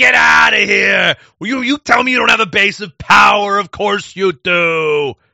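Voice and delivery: loud, slow, high-pitched yell.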